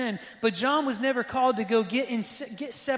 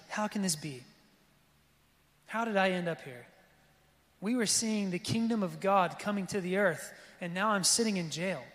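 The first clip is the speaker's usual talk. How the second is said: John's bewildered lament; 2 semitones lower, 4 dB quieter than usual. Retold or imitated. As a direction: let the confusion sink the voice down. John jailed, doubting.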